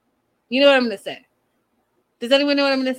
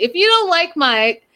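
retold yelling; 5 semitones higher, slower than usual. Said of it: "Angela starts yelling at Natalie".

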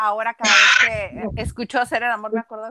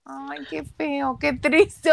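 mock dismay; 4 semitones higher, much slower than usual. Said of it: "Y yo así de".

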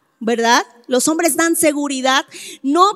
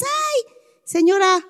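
overfamiliar greeting; 5 semitones higher than usual. Acted. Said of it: "eres respetuoso".

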